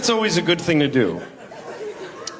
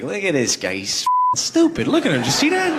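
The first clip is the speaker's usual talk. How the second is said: mocking onlookers; 2 semitones higher than usual. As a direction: point and scoff at the lost guy. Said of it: "Everyone is like".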